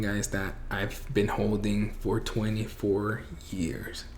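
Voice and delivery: real emotion slowing the words, voice dropping away; slow, soft, overcome by what is being confessed; choked up. Real, not acted. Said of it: "I was gonna get emotional".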